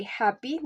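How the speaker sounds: first syllable of "happy" stressed. Shown as a demonstration. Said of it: "the stress is on the first syllable".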